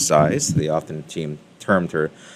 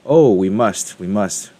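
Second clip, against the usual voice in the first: eager rooster agreeing, louder on the oh; lightly voiced, hurried agreement; mild echoing cry; 2 semitones higher, 5 dB louder, slower than usual. A narrator's reading. Rooster Booster answering Henny Penny, mild eager cry. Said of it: "he cried back".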